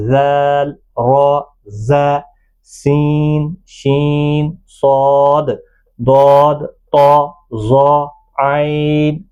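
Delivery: letters held long and level, "با، تا، سا" ending in open aa; maroof letter recitation. Shown as a demonstration. Teacher modelling maroof alphabet, "با، تا" drawn out with long aa. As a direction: recite "با، تا، سا" as baa, taa, saa, evenly drawn out. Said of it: "معروف آواز کیا ہے؟".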